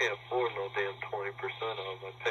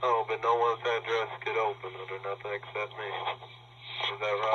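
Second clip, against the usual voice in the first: louder, needling sarcasm; mocking disbelief, louder at the end; sarcastic challenge; 4 dB louder than usual. Real, not acted. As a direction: dare him to admit it. Challenging about opening mail.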